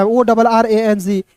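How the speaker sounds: slow letter-by-letter spelling; teacher spelling slowly. Shown as a demonstration. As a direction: spell it out for the class. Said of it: "या ओ".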